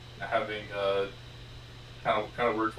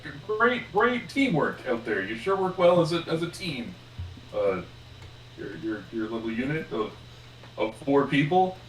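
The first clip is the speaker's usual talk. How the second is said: higher, halting acted praise; halting and higher, slowing on key words; awkward congratulation; 4 semitones higher than usual. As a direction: stumble through forced team praise. Voices Diesel's awkward congratulations.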